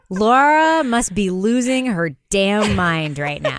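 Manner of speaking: slow, laughing through it; amused guess at her inner voice; laughing imagined thought. Retold or imitated.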